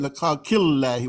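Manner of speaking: khalqillahi with the Allah sound flattened by the kasra. Shown as a demonstration. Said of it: "Why did I say".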